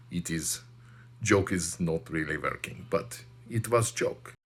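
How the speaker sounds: put-on comic Russian accent. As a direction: tell it like a joke in a thick Russian accent. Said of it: "accents and funny voices".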